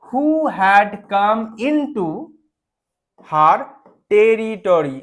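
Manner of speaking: hushed, slow whisper. Shown as a demonstration. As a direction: breathe the words out. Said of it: "reads the story line".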